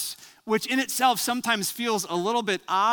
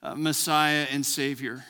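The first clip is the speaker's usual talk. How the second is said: steady, lowered prayer voice; 3 semitones lower than usual. Acted. Pastor praying before the sermon, earnest prayer voice. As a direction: pray earnestly over the gathered church.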